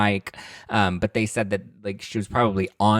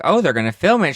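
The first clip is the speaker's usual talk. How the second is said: mocking echo; 8 semitones higher, 6 dB louder than usual. Kyle mocking Camille in retold car talk.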